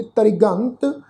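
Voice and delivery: ਤ੍ਰਿਗੰਤ slowly, with a short i on the r; short i after r. Shown as a demonstration. Teacher showing the sihari, ਤ੍ਰਿਗੰਤ with r carrying a short i. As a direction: sound the ri clearly in ਤ੍ਰਿਗੰਤ. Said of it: "ਰਾਰੇ ਨੂੰ ਸਿਹਾਰੀ ਲਾ ਕੇ".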